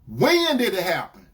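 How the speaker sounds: firm, demanding question; dead serious. Retold or imitated. Boyfriend demanding when it happened, dead serious. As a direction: put the retold question to her sternly. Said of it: "dead serious".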